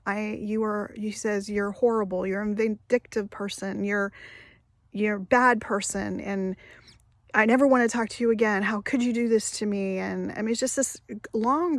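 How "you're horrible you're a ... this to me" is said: retold yelling. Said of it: "he's screaming at me".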